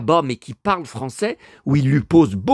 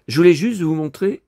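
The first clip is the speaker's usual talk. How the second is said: raspy after a cough; hoarse, gravelly throat. Real, not acted. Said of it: "j'ai la voix éraillée".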